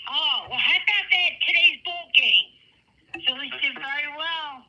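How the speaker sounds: Missus Mangini. Acted. Miss Mangini diverting to today's ball game, loud character voice. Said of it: "Should we do a Missus Mangini?".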